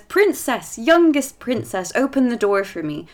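loud calling through a door. Acted. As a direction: call the princess from outside. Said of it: "starts crying out to the princess".

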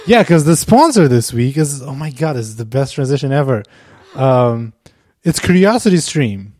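loud, pushy pitchman pitch; car salesman voice. Acted. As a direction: sell it like a used car dealer. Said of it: "Get out your car salesman's voice".

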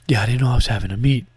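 hurried hush at the desk; work voice. Shown as a demonstration. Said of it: "try it one more time".

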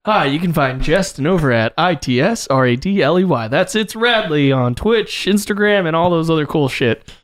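bubbly promo pitch, selling it hard; advertisement voice. Pretend. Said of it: "like, advertisement voice".

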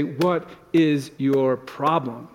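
slow, drawn-out what is your problem; mock irritated snap. Husband mocking a snap at his sighing spouse, slow. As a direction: pretend to snap at a spouse, slowly. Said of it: "and you say".

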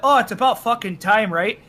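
lightly put-on Ontarian Canadian; a touch of Ontarian accent. Shown as a demonstration. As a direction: say it like someone from Ontario. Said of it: "Anybody who says".

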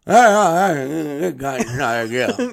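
a flustered mock yelp; mock panic. Patient at the dentist chair, mock panicked yelp. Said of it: "it was me going".

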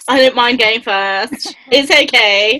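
slow drawn-out mock of a friend; teasing imitation. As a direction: stretch it out lazily, teasing. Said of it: "If he's always like".

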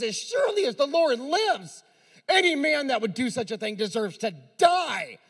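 preacher playing an indignant king; furious king. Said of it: "the Bible says he was furious".

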